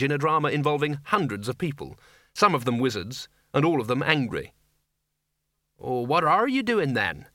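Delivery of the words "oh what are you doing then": slow, weakly put question. A narrator's reading. Sergeant facing angry wizards, weakly. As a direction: sergeant faintly at a loss. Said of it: "he said weakly".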